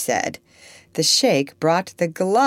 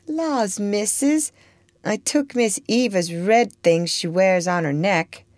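a hint of a sly girl, innocent surprise; lightly voiced girl; 5 semitones higher than usual. Girl feigning innocence to her mistress, higher voice. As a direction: play it wide-eyed and innocent, pitched higher. Topsy's voice.

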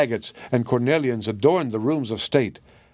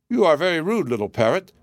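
cartoon princess; 5 semitones higher than usual. Princess speaks.

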